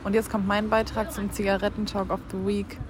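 laut und langsam angesagt; Schuldurchsage. Pretend. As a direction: wie ein Schulsprecher ankündigen. (laute Lautsprecheransage)

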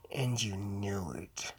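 slow, drawn-out whisper; hushed, lingering whisper; whispered echo. Real, not acted. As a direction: whisper it slowly, low and knowing. Hushed echo of his own line.

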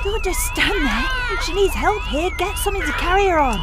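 urgent shout. Acted. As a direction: bark orders at onlookers. Ordering bystanders at rescue.

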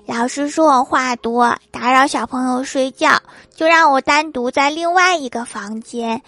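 lightly voiced whiny little girl; child voice. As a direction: complain like a bored little kid, drawn out. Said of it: "放学后跟郭大侠说". (小女孩撒娇抱怨)

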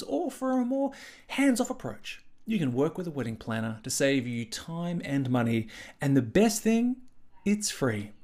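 upbeat podcast sponsor read. Acted. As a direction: read it like a radio ad. Host reads sponsor ad.

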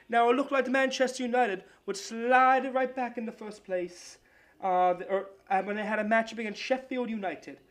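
a hammed-up amateur English sportscaster accent, pitched a bit up; a sports-desk read in a clumsy English accent; a playful, overdone English accent for the soccer segment. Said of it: "do a bit of an English accent".

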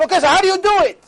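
high, loud, fast disbelieving question; incredulous question. Retold or imitated. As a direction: fire it off in mock disbelief. Retelling his shocked question.

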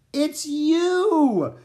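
very high, loud, drawn-out exclamation; delighted cry. A narrator's reading. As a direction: cry out in joyful recognition. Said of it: "he heard Annie laugh".

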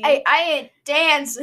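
loud mock Brooklyn accent, laughing. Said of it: "in his thick Brooklyn accent".

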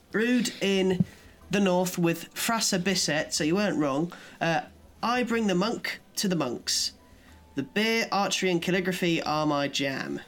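put-on northern accent. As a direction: keep the northern accent going. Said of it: "read it in a northern accent".

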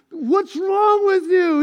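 slow, drawn-out mock nagging; stretched words, playfully frustrated; frustrated wife. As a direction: act out an exasperated wife's demand. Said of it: "she's frustrated, and she's like".

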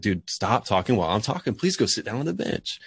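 teacher shows the wrong way to scold a student; mild frustrated scold. Shown as a demonstration. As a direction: snap at the kid as if fed up. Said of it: "if you said it in a different tone of voice".

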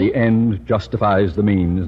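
slow, self-important declaration; pompous pronouncement. Acted. Principal lecturing his daughter, slow pompous maxim. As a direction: lay down the maxim slowly and grandly.

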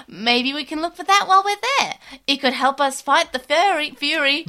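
a hint of an eager cartoon hero; bright, keen little creature, lightly done; lightly voiced Digimon. Voices Veemon in fanfic.

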